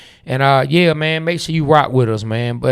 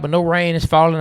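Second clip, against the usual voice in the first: ordinary delivery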